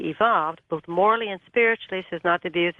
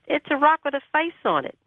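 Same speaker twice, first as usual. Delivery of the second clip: retold in a much higher pitch; insistent repeat; 8 semitones higher than usual. Pressed to describe it on the phone, retold higher insistence. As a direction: say it over, pitched right up to insist.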